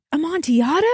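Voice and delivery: astonished query; crying out. A narrator's reading. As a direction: cry it out as a rising question. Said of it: "he cried".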